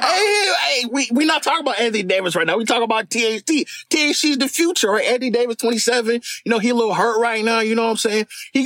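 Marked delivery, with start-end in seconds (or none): 0.0-4.2 shouting him down. Acted. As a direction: jump in over him with a sharp raised voice. Cutting in on the other hooper.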